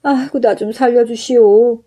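wailing innkeeper begging for mercy; pained wailing. Acted. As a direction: cry out in pain while pleading. Innkeeper beaten by magic club.

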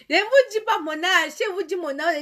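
high, loud outburst easing off; loud protest. Real, not acted. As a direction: burst out in refusal, then ease down. Refuses insistent viewers her age. (protestation forte et aiguë)

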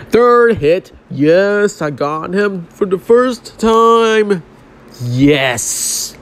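thrilled cheer at the win; excited triumph. Real, not acted. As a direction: shout it out in victory. Finally beats the boss.

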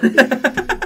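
loud laugh. Acted. Outburst amid the rant.

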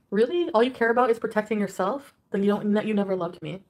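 loud, accusing outburst; angry yelling. Real, not acted. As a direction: yell at him, hurt and furious. Heated fight with boyfriend.

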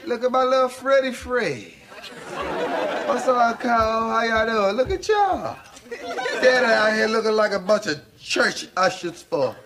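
lightly voiced sassy neighbourhood woman; bossy, teasing girl from the block; Shanae. Martin voices Shanae all through.

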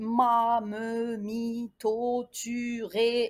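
each of "ما, me, mi, to, tu, ré" stretched, run together; level-toned list "ما, me, mi, to, tu, ré"; syllable recitation. Shown as a demonstration. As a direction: chant through "ما, me, mi, to, tu, ré" evenly. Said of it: "Une consonne plus une voyelle".

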